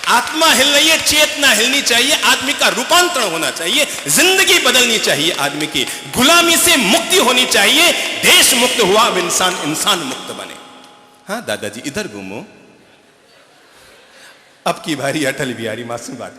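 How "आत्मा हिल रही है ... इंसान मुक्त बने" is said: higher, louder fiery sermon; preaching at full force. Acted. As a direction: shake the hall awake with conviction. Monk exhorts the crowd.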